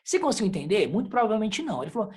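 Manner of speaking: ordinary delivery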